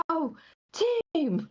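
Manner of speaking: mock rallying yell at talking volume; retold loud cheer. Worker retells the manager cheering the team on, mild mock yell. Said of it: "just as loud as he can".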